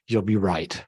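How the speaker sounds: ordinary delivery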